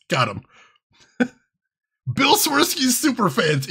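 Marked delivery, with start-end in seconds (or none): 2.1-3.7 high, slow mock Chicago announcement; hammed-up Chicago vowels; Chicago accent. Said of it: "If you don't know what the Chicago accent is".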